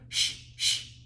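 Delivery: urgent unvoiced hush; shushing. Vendors hushing her in the meeting, urgent shush. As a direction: shush her fast, under breath.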